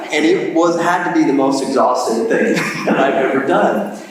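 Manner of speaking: amused, laughter in the words; laughing through words. Real, not acted. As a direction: still laughing as he speaks. Laughing through the palm tree punchline.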